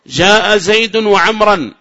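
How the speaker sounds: slow, loud, every word weighed; slow example read. Shown as a demonstration. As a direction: read the example out slowly for the class. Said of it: "كم وجها في عمرو؟". (قراءة بطيئة واضحة للمثال)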